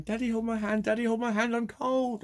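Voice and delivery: put-on high little-boy whimper, pleading; imitating a crying little boy. Retelling a cold boy begging daddy, high child voice. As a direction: mimic a small child begging his dad. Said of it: "he was going".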